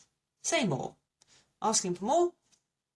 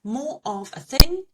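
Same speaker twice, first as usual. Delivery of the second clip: much louder, punchy rule; emphatic rule; 7 semitones higher, 11 dB louder than usual. Shown as a demonstration. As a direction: hammer the tip home. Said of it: "my little tip".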